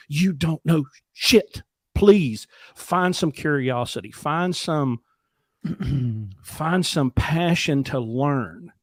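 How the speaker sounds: slow, pressing, each word leaned on; emphatic urging. Pretend. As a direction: shake them awake with words. Imagined shaking participants, urging.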